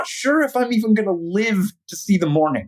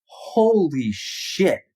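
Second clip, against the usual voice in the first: awed hush; 5 semitones lower, much slower than usual. Retold or imitated. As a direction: breathe it out in wonder. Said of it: "where you go".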